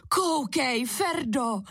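put-on a storyteller's touch of boyish excitement; excited call. A narrator's reading. Kuba showing Ferda the water slide, excited call. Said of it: "zvolal nadšeně Kuba".

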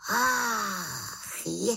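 high ah-ha cry; the witch slapping her forehead; dawning realisation. Acted. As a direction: gasp as it dawns on you. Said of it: "zvolala malá čarodějnice".

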